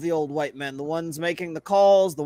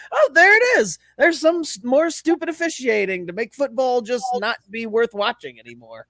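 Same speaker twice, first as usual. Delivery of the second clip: sarcastic; 4 semitones higher than usual. Retold or imitated. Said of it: "you're like".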